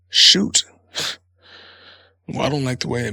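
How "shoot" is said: mock innocent.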